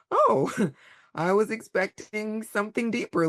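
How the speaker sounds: laughing, teasing let-down; laughing mock disappointment. Woman laughing at her inner child's blunt advice. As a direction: chuckle through the fake disappointment.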